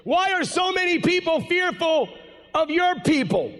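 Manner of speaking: a hint of a pointed reporter; reporter's question.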